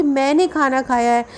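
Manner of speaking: मैंने given the main weight; stress on मैंने. Shown as a demonstration. Teacher demonstrating sentence stress to students, emphasis on मैंने. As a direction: lean on मैंने, lighter on the rest. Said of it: "इस बात को बल लगाकर बोल रहे हैं".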